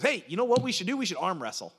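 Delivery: put-on country-accented challenge, loud at first; Hillbilly. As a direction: imitate a hillbilly buddy pitching an idea. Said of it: "And he goes".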